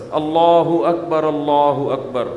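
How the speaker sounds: slow measured اللہ اکبر, not drawn out; short azan call. Shown as a demonstration. Preacher showing a short proper azan call. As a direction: call it briefly and evenly. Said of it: "مختصر اذان دے".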